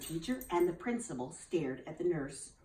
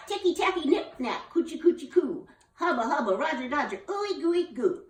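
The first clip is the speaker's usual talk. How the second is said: very high burst of silly words; blurted rhyme; 9 semitones higher, 4 dB louder than usual. Acted. Lulu blurts her rhyme to close the warp, squealing. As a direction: blurt it all out. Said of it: "blurted out".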